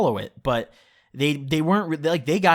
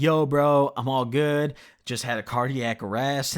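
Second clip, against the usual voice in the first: casual, offhand imitation of a friend; imitating a totally unbothered buddy; retold nonchalance. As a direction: toss it off like it's no big deal. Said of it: "he said it no nonchalantly".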